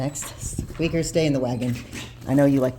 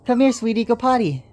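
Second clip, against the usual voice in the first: coaxing pet talk; 12 semitones higher, 4 dB louder than usual. Real, not acted. Owner urging puppies to potty, high sing-song baby talk. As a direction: cheer the puppy on to go.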